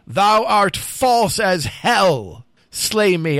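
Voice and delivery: high, very drawn-out accusing cry; narrated call. A narrator's reading. Thrown rider to Lancelot from the ground, high call. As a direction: call out slowly across a dark field. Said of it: "called out from the dark field".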